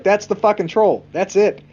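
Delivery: thrilled viewer calling it; excited certainty. Retold or imitated. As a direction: insist you've spotted the troll, fired up. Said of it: "the whole time you're like".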